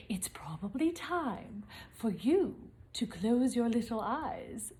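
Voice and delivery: soft unvoiced bedtime whisper. Real, not acted. Parent whispers to the children that it's bedtime, hushed. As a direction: hush them toward sleep. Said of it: "bedtime hush".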